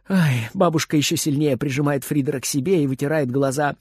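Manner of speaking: plain reading voice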